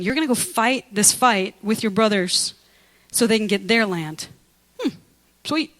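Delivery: sheepish Moses. Retold or imitated. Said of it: "he's like".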